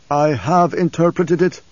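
as if from far away; remote, detached old seer; distant voice. Acted. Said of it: "his voice seeming to come from a long distance".

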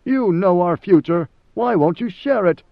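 a servant on the edge of hysteria; near hysteria. Acted. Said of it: "Mineo was close to hysteria".

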